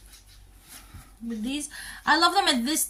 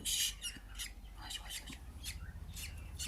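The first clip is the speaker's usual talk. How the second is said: slow, breathless whisper; soft, slow whispered coaxing; 20 dB quieter, much slower than usual. Real, not acted. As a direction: hush so the animals stay calm. Hushing near the animals.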